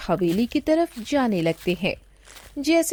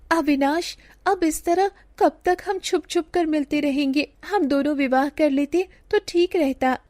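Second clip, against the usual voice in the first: put-on sugandha's girlish voice; 6 semitones higher than usual. Sugandha pleads with lover secretly.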